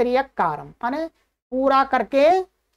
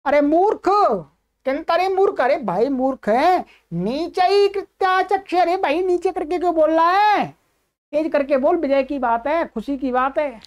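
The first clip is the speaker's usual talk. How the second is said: scolding father; 3 semitones higher than usual. Acted. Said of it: "तो ब्राह्मण कहता है".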